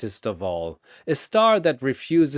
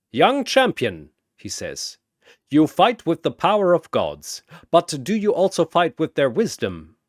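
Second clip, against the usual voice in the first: put-on louder, higher wise old master; sage challenge; 4 semitones higher, 4 dB louder than usual. Chen stepping forward to test Shazam, sage and probing. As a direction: test the young god gently.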